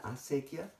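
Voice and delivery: acequia said with the i and a gliding together; sounding out acequia. Shown as a demonstration. Teacher showing the diptongo in acequia, sounded out. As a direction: sound out acequia so both vowels are heard. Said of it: "si yo reproduzco en sonido o en fonemas".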